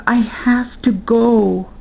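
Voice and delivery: a lightly voiced boy, slow and earnest; Spark pleading. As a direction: say it slowly, set on going. Spark's plea, slower.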